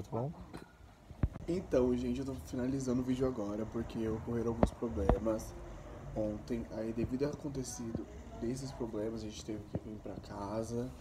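low, soft, worn-out sign-off; drained closing words; tired and quiet. Real, not acted. Tired wrap-up after night.

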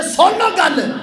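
high, ringing call to listen; commanding shout. Real, not acted. Preacher demands the congregation hear him, high shout. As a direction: shout it over the crowd. Calls for attention, then lowers voice.

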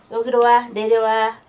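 calling the dog down firmly; firm, loud call to come; loud dog command. Real, not acted. (강아지를 부르는 단호한 목소리)

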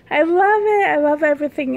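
high, loud "I love it"; excited gush. Real, not acted. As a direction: burst out with delight over the jacket. Gushing over doll's jacket.

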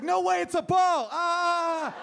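thrilled like a dog seeing the ball; overjoyed dog. Pretend. Dog voiced by the comedian when the ball flies, an excited squeal.

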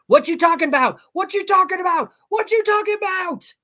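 high, loud, building scream; a kid screaming his catchphrase at the cage; screaming at full voice. A narrator's reading. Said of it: "screaming the slogan at full voice".

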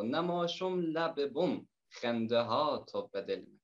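Herati dialect poem read in the poet's own voice; reciting a Herati folk love poem to the guests in Herati accent. Acted. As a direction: recite lightly in Herati Persian. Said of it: "به لهجهٔ هراتی گفتم به خوانش بگیرم".

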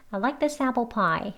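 "I like this apple pie" run together slowly; slow model sentence, "this apple" joined as one; linked words. Shown as a demonstration. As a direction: link THIS straight into APPLE. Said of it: "이렇게 이어서 또 해볼게요".

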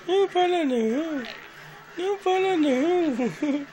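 laughing, high and playful. Real, not acted. Dog wants more petting, playful.

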